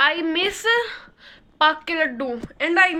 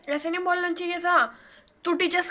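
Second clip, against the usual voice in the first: imitating scolding mom; 4 semitones higher than usual. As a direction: play mom telling her off on the phone. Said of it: "फिर मेरी mummy call करके बोलती है".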